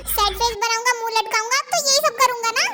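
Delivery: normal talking voice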